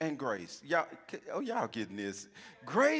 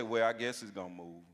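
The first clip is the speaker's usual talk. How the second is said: timid and much quieter, pitched well down; little weak voice; 10 semitones lower, 5 dB quieter than usual. Shown as a demonstration. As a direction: say it like you don't believe it. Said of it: "in that little weak voice".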